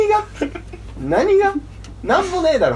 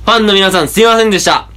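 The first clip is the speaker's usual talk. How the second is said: measured, projected farewell-speech delivery; mock public declaration. Apologises to fans for switching to comedy, mock formal announcement. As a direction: declare it solemnly in separated phrases.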